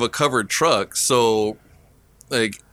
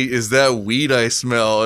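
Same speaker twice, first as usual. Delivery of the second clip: mocking repeat; slower than usual. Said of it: "What the fuck made you think to say".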